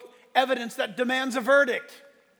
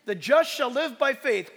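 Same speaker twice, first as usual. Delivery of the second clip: higher, louder proclamation; preached verse; 4 semitones higher, 6 dB louder than usual. Acted. Pastor preaching the verse to the church, loud. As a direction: ring out the key verse.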